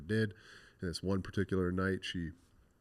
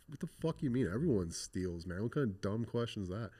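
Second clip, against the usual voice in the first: retold indignation, pitch jumping up; indignant retort; 3 semitones higher than usual. Youth answering guard's question about stealing, mock-indignant. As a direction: throw it back in disbelief, higher.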